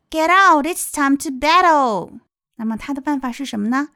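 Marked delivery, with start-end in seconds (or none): 0.1-2.2 high, drawn-out storybook command; knight calling out. Acted. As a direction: call the king out to battle. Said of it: "骑士喊道".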